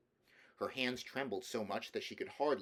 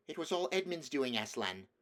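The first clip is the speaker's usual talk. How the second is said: urgent Peter; 4 semitones higher than usual. Acted. Peter reports battle urgently.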